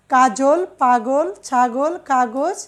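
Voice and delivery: কাজল, পাগল, ছাগল, কাগজ each word drawn out slowly; slow careful demo. Shown as a demonstration. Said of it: "আকার". (ধীরে ধীরে শব্দ উচ্চারণ)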